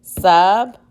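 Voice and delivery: sub and mit split by beats; tapped out syllables. Shown as a demonstration. Teacher tapping syllables for the class, beat by beat. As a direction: tap out Submit beat by beat. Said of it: "let's tap out submit".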